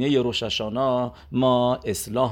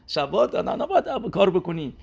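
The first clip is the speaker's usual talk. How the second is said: laughing; 4 semitones higher than usual. Retold or imitated. Laughing while quoting the man.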